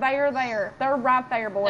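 urgent callout. Real, not acted. Spotting enemies, calling out.

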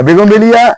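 বেগুনবিলিয়া said with "begun-" for "bougain-"; mispronounced bougainvillea. Real, not acted. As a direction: say বেগুনবিলিয়া as a homely slip for bougainvillea, starting "begun". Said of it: "উচ্চারণ করে ফেলি". (বেগুনবিলিয়া, বোগেনভেলিয়ার ভুল উচ্চারণ, শুরুতে "বেগুন")

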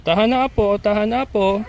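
high, hushing granny voice; calm the baby as a grandma; soothing grandma voice. Acted. Voicing goat soothing her kid.

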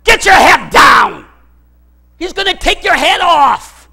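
slow, loud battlefield yell; urgent shout. Acted. Soldier yelling at buddy to duck, loud shout. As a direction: bellow the warning to save him.

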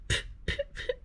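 tiny soft whimpering puffs; quiet, stuttering whimper; pretend whimper. A narrator's reading. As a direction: whimper in little broken bursts. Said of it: "whimpered the fox".

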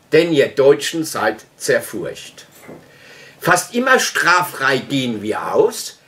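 mildly performed verse reading; poem recitation. Acted. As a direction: declaim it line by line like a poem.

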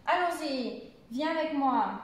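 exclamation lingering on the ends of ALLONS-Y and MOI; exclamative intonation. Shown as a demonstration. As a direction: stretch the final "y" of "allons-y" and "moi". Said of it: "cette partie à la fin prend plus d'importance".

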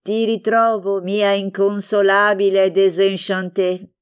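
playful mocking greeting; teasing. Fanny to Franca, mocking her gloom, playful teasing. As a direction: tease her friend with mock pity. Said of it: "Fanny la canzonava".

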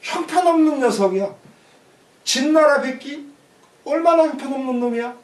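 mild acted scorn; contemptuous. Mosu belittles Qin general Baek Gi, mildly contemptuous. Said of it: "이 소수자는 깔보는 말이에요".

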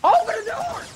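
high, loud yell; sudden yell out of nowhere; shout. Real, not acted. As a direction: bellow it to get the door open. Shouting at game character.

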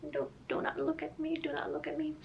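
hushed and high, shy; embarrassed whisper. Real, not acted. Embarrassed, hiding from camera.

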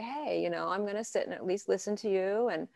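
a soft conciliatory voice; gently offering to listen to an angry partner; graceful and kind. Pretend. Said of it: "be more graceful and kind and say".

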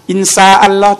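อินซาอัลลอฮ์ with "s" where "sh" belongs; wrong plain "s" in อินซาอัลลอฮ์; sheen turned seen. Shown as a demonstration. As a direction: mispronounce it as อินซาอัลลอฮ์, "in saa Allah". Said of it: "จากชาอาเป็นตัวซีนนะครับ".

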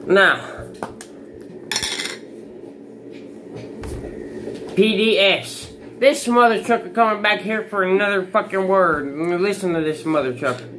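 talking around a lip full of dip; words thick from packed lip. Real, not acted. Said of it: "I'm gonna pack a lip".

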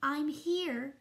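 lightly voiced little piccolo, piping up; high, wee sniffly voice. A narrator's reading. Tiny Piccolo answers the conductor in a high, wee voice. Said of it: "sniffled a high, wee voice".

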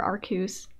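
Arceus in two syllables, "AR-kyoos"; pronunciation variant. Shown as a demonstration. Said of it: "however you wanna pronounce it".

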